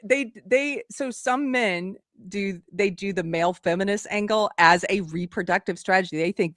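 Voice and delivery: normal talking voice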